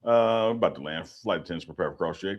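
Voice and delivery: calm captain over the intercom; pilot cockpit headset. Pretend. Playing pilot landing the plane.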